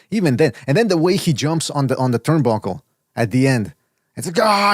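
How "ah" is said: mock victory scream. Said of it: "he starts screaming like he".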